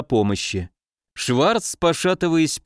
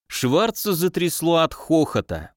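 plain reading voice

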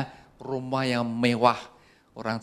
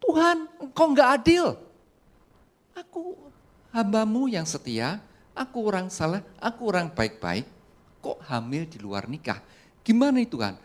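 screaming protest; 10 semitones higher than usual. Pretend. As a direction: wail at God that it isn't fair. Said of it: "Maria akan teriak-teriak".

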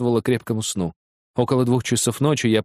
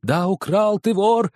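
father shaking his son by the shoulders; angry shout; 9 semitones higher, slower than usual. Acted. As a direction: throw the word thief at him. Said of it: "кричал я".

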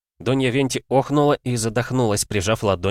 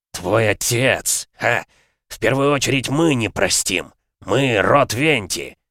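scornful rebuff; 3 semitones higher, slower than usual. A narrator's reading. Lord scornfully rebuffs threat.

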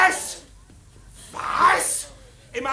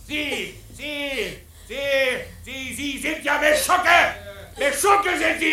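betrunken wütend; 3 semitones lower than usual. Acted. Betrunkener Streit mit dem Fremden.

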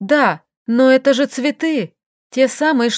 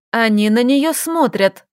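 plain reading voice

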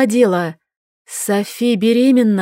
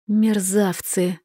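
slow, softer hateful hiss; hissed with hatred; 4 dB quieter, slower than usual. Acted. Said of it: "прошипела я с ненавистью". (прошипеть с ненавистью)

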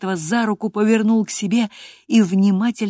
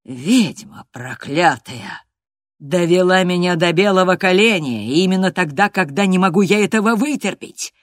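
furious outburst; 2 semitones higher, 8 dB louder than usual. A narrator's reading. Master curses the girl who provoked him, furiously. Master rages as he seizes her.

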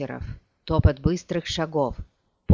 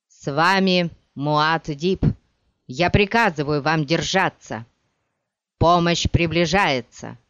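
commanding; 4 dB louder than usual. Acted. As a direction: order them to hold on. Paul commands blinded soldiers. (громкий властный приказ)

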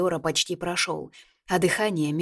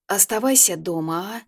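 жалобно; 3 semitones higher than usual. Acted. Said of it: "жалобно попросила я".

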